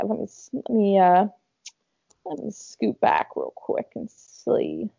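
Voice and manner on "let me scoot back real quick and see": a light Southern drawl, slowed down; southern accent. Real, not acted. Slipping into a slight Southern accent while scrolling the video back. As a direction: slip into a slow, mild Southern twang. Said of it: "I don't know why I just said it like that".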